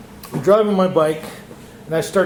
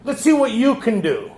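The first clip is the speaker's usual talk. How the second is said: higher, bold challenge from God; God's voice; 5 semitones higher than usual. Retold or imitated. Man voices God daring him, higher challenge. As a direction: dare him as God would. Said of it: "God talk like that".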